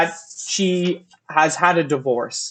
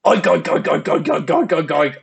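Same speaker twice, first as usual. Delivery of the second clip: pig noises. Retold or imitated. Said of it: "and then she goes".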